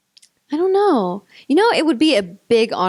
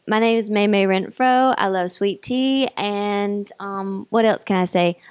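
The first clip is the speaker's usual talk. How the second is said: Southern accent. Shown as a demonstration. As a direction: introduce yourself with a Southern accent. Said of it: "I can obviously do a Southern accent".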